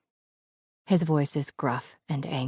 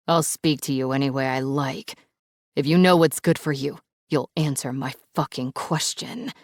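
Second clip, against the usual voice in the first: growling threat. Acted. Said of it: "Dante lets out a growl".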